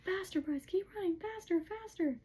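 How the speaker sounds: high-pitched, mounting cheer-on; urgent urging. Retold or imitated. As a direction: spur a runner on, pitch climbing. Acted urging a runner on.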